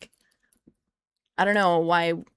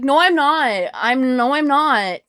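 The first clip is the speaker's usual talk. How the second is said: retold denial; 4 semitones higher, 8 dB louder, slower than usual. Retold argument with Matt.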